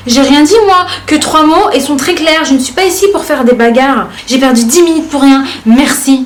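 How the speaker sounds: un peu plus haut et plus fort, ton de commentateur froissé; réplique vexée. Retold or imitated. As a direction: joue l'internaute blessé qui se justifie. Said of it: "de la manière dont moi je les lis dans ma tête". (lu comme un internaute vexé)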